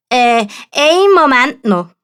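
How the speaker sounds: timid stalling request; buying time, flustered; hesitant knight. A narrator's reading. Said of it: "bittet der Sascha". (zögernder Ritter)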